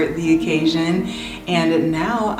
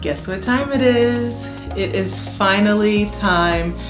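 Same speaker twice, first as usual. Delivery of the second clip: higher, eager build-up; gushing makeover reveal; 4 semitones higher than usual. Real, not acted. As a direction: tease the big moment with excitement. Announcing room load-in and reveal.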